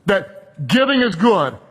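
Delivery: slow, firm stress on giving; steady unwavering proclamation; firm declaration. Real, not acted. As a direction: declare giving is good with conviction. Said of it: "without any weakness in my voice".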